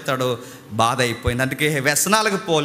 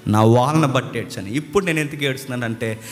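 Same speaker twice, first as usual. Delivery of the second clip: low, sinking lament; weary complaint to God, understated; retold weeping prayer; 4 semitones lower than usual. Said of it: "నా రోగాన్ని బట్టి ఏడుస్తున్నాను". (దీనంగా మొర)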